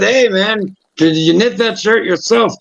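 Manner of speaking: stage-Irish passer-by; Irish fella. Acted. A fella asking about a shirt, lilting Irish accent. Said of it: "and the fella said".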